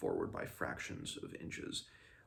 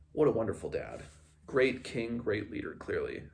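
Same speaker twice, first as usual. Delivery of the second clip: sarcastic; 2 semitones higher, 4 dB louder than usual. Real, not acted. Sarcastic verdict on the king.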